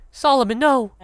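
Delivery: high cry of alarm; alarmed shout. Acted. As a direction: shout the name in panic. Character cries out in alarm.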